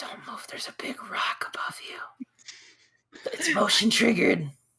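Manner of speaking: whispered, barely voiced, hushed creature voice. Acting out a creature in a scary story, whispering as the creature. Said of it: "he's whispering, and he goes".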